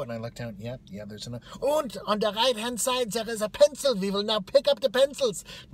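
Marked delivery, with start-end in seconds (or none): 1.6-5.4 high, loud barked instructions; strict orientation leader. Retold or imitated. Woman at the front instructs new hires, barking high. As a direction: bark it out like a caricatured martinet. Mimics leader ordering pencils picked up.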